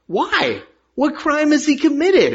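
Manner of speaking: high, loud protest; Pilate's questioning. A narrator's reading. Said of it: "asked Pilate".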